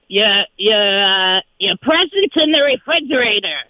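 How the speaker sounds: lightly voiced Boston accent; a hint of a gravelly Boston accent. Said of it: "I can't do the Boston accent".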